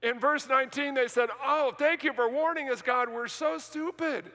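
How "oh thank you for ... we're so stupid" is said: mock gratitude. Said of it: "Is that what they said? No".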